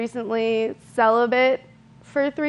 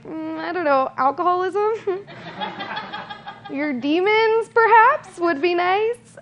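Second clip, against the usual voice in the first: sarcastic sweetness; 7 semitones higher than usual. Retold or imitated. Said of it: "And I was just like".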